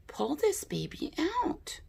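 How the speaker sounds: breathy playful whisper. Acted. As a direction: whisper it like a secret. Playful aside while showing palette.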